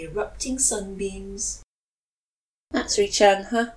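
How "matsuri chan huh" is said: disdainful. Acted.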